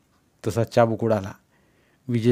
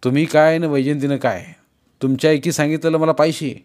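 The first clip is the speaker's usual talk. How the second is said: rude retort; 4 semitones higher, 4 dB louder than usual. Acted. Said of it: "विजय उद्धटपणे चंदनला बोलला".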